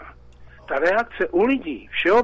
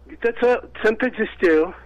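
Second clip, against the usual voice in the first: usual speaking voice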